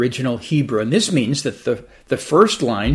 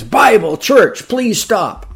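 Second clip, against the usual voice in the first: louder, higher frantic commands; desperate shouting; 7 semitones higher, 5 dB louder, slower than usual. Acted. Man frantically shouting commands at the donkey, louder and higher. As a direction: throw out any word that might work. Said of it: "desperately shouting the man".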